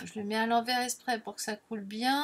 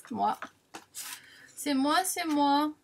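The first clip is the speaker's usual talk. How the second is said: laughing; 4 semitones higher than usual. Real, not acted. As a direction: laugh at your own clumsiness. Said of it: "vous connaissez les deux mains gauches". (en riant de sa maladresse)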